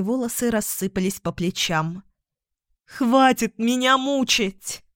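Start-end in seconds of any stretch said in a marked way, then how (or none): 2.9-4.8 higher, drawn-out plea; anguished cry. A narrator's reading. Катарина among the statues, unaware of guests, an anguished cry. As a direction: cry out slowly, at the end of endurance. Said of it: "кричала Катарина".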